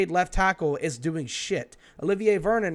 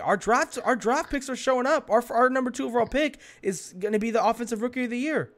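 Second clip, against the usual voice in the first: worked up; 5 semitones higher than usual. Real, not acted. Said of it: "you get so mad".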